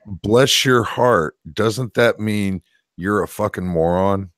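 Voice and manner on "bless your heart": mock sweet insult. Shown as a demonstration.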